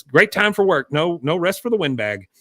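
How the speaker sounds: a touch of wounded pride; lightly voiced Peggy. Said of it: "And she goes".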